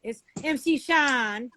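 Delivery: "Sean" drawn out with a broad "ah"; accented name. Retold or imitated. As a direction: slowly imitate her accent on "Sean". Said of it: "It's her accent".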